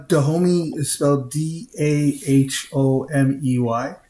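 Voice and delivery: D A H O M E Y said letter by letter; D A H O M E Y as single letter names; spelled out. Real, not acted. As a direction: spell out D A H O M E Y, each letter separate. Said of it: "you need to spell it out".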